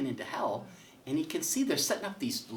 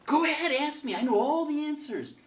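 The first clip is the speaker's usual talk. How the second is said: God welcoming Harry; 14 semitones higher, 6 dB louder than usual. Acted. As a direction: greet him like a jolly host in heaven, pitched way up.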